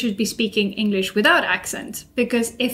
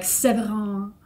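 names drawn out slowly, mocking a stiff audiobook narrator; wooden slow narrator; slower than usual. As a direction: lightly imitate a dull, wooden reader. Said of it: "he's so slow when he speaks".

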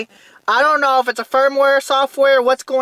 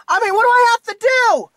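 higher, exasperated question; 5 semitones higher than usual. Real, not acted. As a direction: plead in frustration. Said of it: "But I'm gonna rant".

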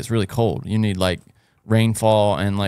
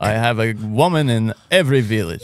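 put-on Colombian accent. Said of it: "Colombian accent".

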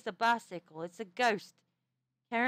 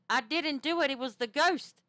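higher, insistent denial; retold protest; 4 semitones higher, 4 dB louder than usual. Julie telling her friend she didn't do it, protesting. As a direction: plead innocence in a lifted voice. Quotes own denial after being blamed.

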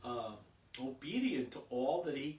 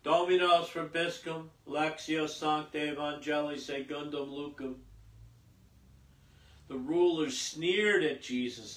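steady liturgical reading voice; formal Mass gospel reading; gospel proclamation; 4 dB louder than usual. Acted. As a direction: proclaim the passion gospel to the people.

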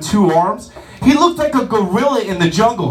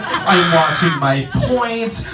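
apologetic lady; 2 semitones lower, slower than usual. Retold or imitated. Guest apologizing to waiter, lightly voiced sheepish lady. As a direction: mumble apologies while grabbing food. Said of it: "the apologetic sorry lady".

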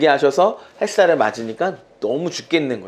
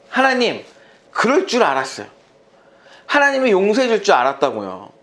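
raised, exasperated pleading to God; angry complaint; 3 semitones higher than usual. Acted. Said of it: "이 요나가 화가 나는 거예요". (하나님께 화내며 따지는 요나)

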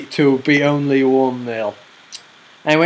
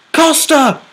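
high, loud, slow cry; excited shout; 9 semitones higher, 4 dB louder, slower than usual. Real, not acted. Calling the late chance then the offside, excited shout. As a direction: wail it out in disbelief.

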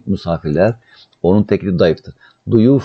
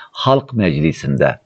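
slow translation; slower than usual. Shown as a demonstration. Teacher spelling out translation slowly.

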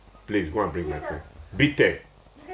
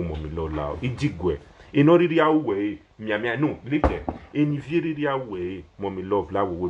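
normal talking voice

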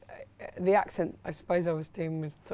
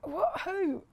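frightened Valerie; 5 semitones higher, 4 dB louder than usual. Acted. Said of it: "Valerie, you're the woman character".

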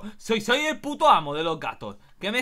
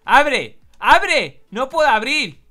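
loud, raised demands; urgent shout; 4 semitones higher, 7 dB louder, much slower than usual. Pretend. Trapped cat at a door, shouting urgently. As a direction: yell to be let out at once.

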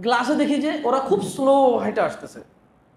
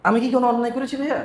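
quick, innocent questioning of আমি কি কোনো অন্যায় করেছি; a light, hurried mock-innocent question; faster than usual. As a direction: ask it fast, like you truly don't see the wrong. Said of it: "just সেইভাবে question করছে".

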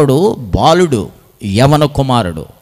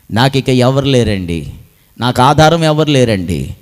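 acted plaintive lament; 3 semitones higher, 4 dB louder than usual. Preacher voices people with no one to help, plaintive and building. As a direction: plead in a list, each louder. Voices needy believers' mounting complaints.

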